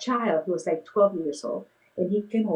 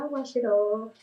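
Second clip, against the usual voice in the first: soft voice with a smile; 2 semitones higher than usual. Retold or imitated. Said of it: "with a really soft voice and a smile".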